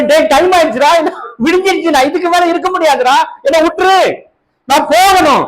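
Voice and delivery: retelling the angel begging Jacob to let him go, lightly voiced; casual urging angel. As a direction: hurry him along like an impatient friend. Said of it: "அவர் என்னன்றாரு?".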